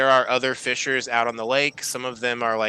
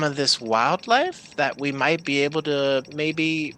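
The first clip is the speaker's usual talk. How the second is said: eager half-elf researcher; 3 semitones higher than usual. Acted. Tally speaks, higher voice.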